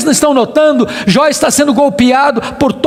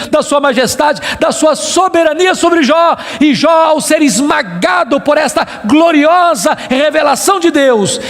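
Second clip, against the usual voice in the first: building, forceful oratory; full-throated sermon crescendo; preaching climax; 2 semitones higher than usual. Real, not acted. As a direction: pile up the phrases with rising intensity.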